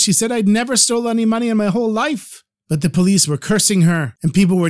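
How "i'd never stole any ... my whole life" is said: crying protest. A narrator's reading. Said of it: "She was crying and protesting her innocence".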